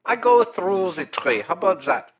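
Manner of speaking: mushroom creature voice. Acted. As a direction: play a polite mushroom monster caller. Caller plays Heimlich throughout.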